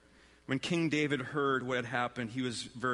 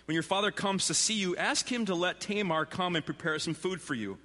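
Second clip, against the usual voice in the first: higher-pitched, measured Bible reading; scripture narration; 5 semitones higher than usual. A narrator's reading. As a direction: read the story aloud to a congregation. Reads Bible story aloud to congregation.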